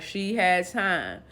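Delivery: slow, drawn-out repeat; acting out a deliberate, unimpressed echo; retold incredulous echo. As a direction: stretch the words out in disbelief. Maria echoes the excuse, unimpressed.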